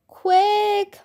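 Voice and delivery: high, drawn-out plea; moaning. A narrator's reading. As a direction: moan it urgently. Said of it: "moaned Bean".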